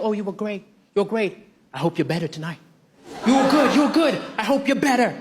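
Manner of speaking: low, droll fan voice; a hint of a patronising fan; lightly voiced fan with faint praise; backhanded fan.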